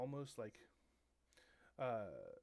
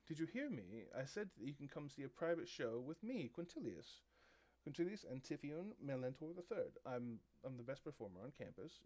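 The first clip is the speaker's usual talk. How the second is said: lightly voiced self-important star; a touch of indignant pomp, pitch swooping on the name; mildly put-out diva introducing himself; haughty performer.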